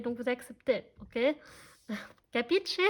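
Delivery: lightly faked Italian accent, amused; half-hearted Italian mobster accent, breaking into a laugh; accent italien pourri du Parrain. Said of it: "mon accent, il, il est tout pourri". (petit accent italien mal imité)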